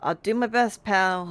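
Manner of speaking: loud, hammed-up hero voice; mock heroic reply. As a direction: belt it like a game hero. Echoing game character line.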